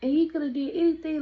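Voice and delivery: imitating a mad friend's scolding. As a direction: tell her off like a big sister. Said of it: "she was mad".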